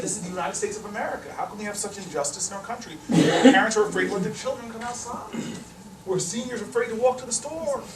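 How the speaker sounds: retold speech-making, rising indignation; understated righteous oratory. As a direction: orate it to the press, mildly worked up. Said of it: "I gave this righteous speech".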